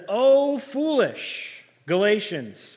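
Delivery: high, slow, loud exclamation of Oh, foolish Galatians; preacher's emphatic rebuke; exclaimed quote. Shown as a demonstration. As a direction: cry out Oh, foolish Galatians with a long drawn-out foolish. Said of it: "Maybe I need to be a little louder there".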